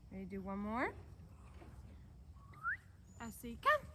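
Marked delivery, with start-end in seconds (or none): 3.2-3.8 higher-pitched recall call. Real, not acted. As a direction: call rising sharply on "come". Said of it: "higher pitched voice".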